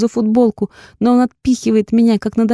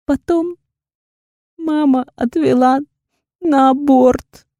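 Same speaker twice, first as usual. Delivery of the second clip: sobbing; 7 semitones higher, slower than usual. A narrator's reading. She forces out confession.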